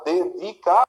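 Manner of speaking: "Dedicação" in separate syllables, landing on "ção"; syllable-by-syllable "Dedicação", strongest on the end; stressed last syllable. Shown as a demonstration. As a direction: pause through "Dedicação" and lean on the final "ção". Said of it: "sílaba mais forte é essa".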